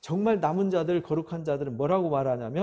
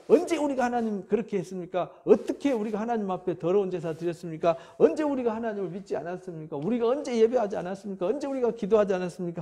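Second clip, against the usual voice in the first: retold indignant protest; 3 semitones higher than usual. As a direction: run of protesting questions, pitched up. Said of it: "말라기에 항변하는 얘기".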